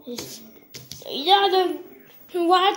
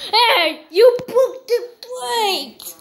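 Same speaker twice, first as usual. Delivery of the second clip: high, louder outraged accusation, half laughing; high scolding; 6 semitones higher, 4 dB louder, slower than usual. Acted. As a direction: accuse them, laughing through it. Character scolds the broken plate.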